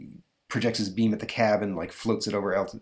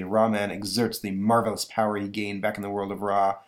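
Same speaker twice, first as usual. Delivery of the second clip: plain reading voice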